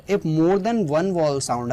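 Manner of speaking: very slow, word by word, x0.4; slow dictation. Shown as a demonstration. Teacher to students, dictating the rule slowly. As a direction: spell out the rule slowly for the class.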